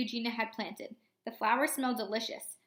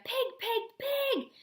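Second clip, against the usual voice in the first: rising shrieks, each pig higher; shouting; 12 semitones higher, much slower than usual. A narrator's reading. Eugenia chasing Mercy, yelling after her. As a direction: yell it again and again, climbing. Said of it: "shouted Eugenia".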